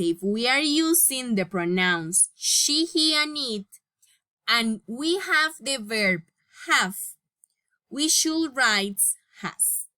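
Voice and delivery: measured classroom reading of a grammar rule; slow rule reading. Shown as a demonstration. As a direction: read the rule out slowly, word by word. Reads the English rule aloud.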